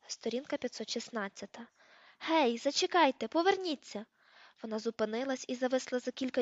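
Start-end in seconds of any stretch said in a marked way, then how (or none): 2.2-4.1 високо, протяжно гукати; поклич того, хто віддаляється; оклик навздогін. A narrator's reading. Гукає привидку, що віддаляється. (протяжний оклик навздогін)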